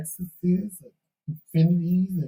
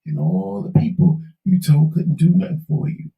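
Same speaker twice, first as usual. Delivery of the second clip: hoarse, failing voice; losing voice. Real, not acted. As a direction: voice giving out, hoarse and breathy. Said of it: "I don't know why I'm losing my voice".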